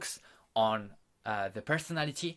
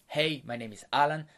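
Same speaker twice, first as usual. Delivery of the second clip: confident voice. Shown as a demonstration. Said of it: "You do that with a confident voice".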